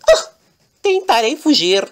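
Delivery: bem mais agudo e alto, apavorado de brincadeira; grito de pânico. Acted. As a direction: grita a fuga com medo teatral. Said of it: "E ele". (Lorenzo caído no chão decide fugir, grito agudo)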